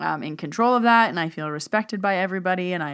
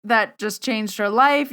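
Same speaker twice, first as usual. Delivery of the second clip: guilty dismay; 5 semitones higher than usual. Retold or imitated. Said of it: "now I feel so guilty".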